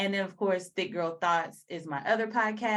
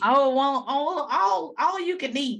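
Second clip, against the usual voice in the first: playful Southern country twang, higher and louder; 5 semitones higher, 7 dB louder than usual. Pretend. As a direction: ham up a Southern country accent for a laugh. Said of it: "why am I getting in this voice? My country voice".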